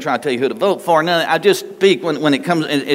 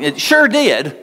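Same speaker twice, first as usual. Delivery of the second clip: sheepish answer; 8 semitones higher, slower than usual. Retold or imitated. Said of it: "that's how God and I talk".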